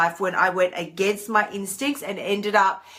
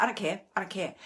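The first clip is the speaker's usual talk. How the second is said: mock don't-care mutter, much softer; dismissive; 9 dB quieter, much faster than usual. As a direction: brush it off under your breath. Acting out dismissive self-talk.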